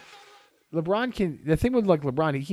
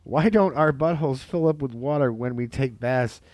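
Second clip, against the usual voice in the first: reading out a quote; 3 semitones higher, 6 dB louder than usual. Retold or imitated. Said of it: "Anthony Armstrong quote".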